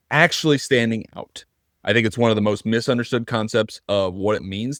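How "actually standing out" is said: "actually" pitched up and leaned on; stress on actually. Real, not acted. Host naming today's topic, stress on "actually". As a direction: land hard on the key word "actually". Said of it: "that's the key word right there".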